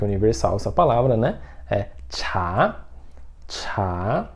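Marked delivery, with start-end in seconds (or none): 3.5-4.3 chá with a strong puff of air on the ch; chá as Chinese chá, aspirated. Shown as a demonstration. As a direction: blow the ch of chá out like a breath. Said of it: "a pronúncia dele é assoprado".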